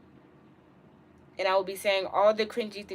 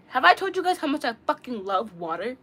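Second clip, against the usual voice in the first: aggressive; 2 semitones higher, 4 dB louder than usual. Real, not acted. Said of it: "Why did I say that so, so aggressively?".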